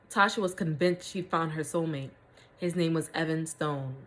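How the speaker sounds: measured read-aloud storytelling; story narration. A narrator's reading. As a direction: read the story out with deliberate phrasing.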